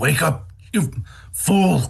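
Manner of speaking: high, drawn-out creature voice. Voicing Krampus yelling at a sleeping toy soldier: Krampus voice. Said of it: "Krampus says".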